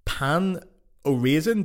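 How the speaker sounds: pain said as English "pan", raisin as English "raisin"; anglicized French. Retold or imitated. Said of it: "do I say".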